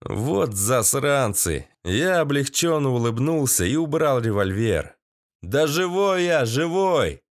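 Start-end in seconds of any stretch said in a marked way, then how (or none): 5.4-7.2 high relieved yell; shouted reply. A narrator's reading. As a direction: call up that you're alive. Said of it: "проорал им я".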